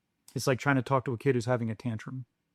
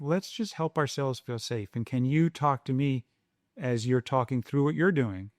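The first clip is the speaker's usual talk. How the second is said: calm parent voice. Retold or imitated. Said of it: "I shift the tone of my voice".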